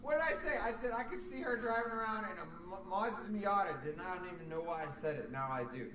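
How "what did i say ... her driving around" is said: excited shout. Real, not acted. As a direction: shout in triumph at being right. Excited realising he was right.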